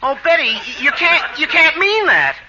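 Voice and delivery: hammed-up lovelorn begging, stumbling over the start; melodramatic pleading. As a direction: plead with rising, wounded pitch. Pleading with departing sweetheart.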